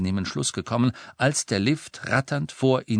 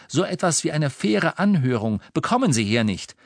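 rising, urgent advice; urgent young hero; 3 semitones higher than usual. Acted. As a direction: press her to run. Harry urges her to flee.

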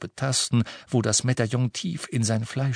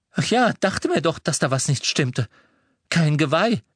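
put-on higher, louder young lad; lively teenage boy voice; Ron's voice; 5 semitones higher, 4 dB louder than usual. A narrator's reading. Ron voiced in story. (höhere Jungenstimme für Ron)

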